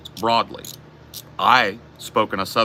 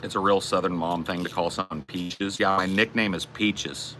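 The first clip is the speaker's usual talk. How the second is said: Southern accent; 4 dB quieter than usual. Shown as a demonstration. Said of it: "speak very deliberately in this dialect".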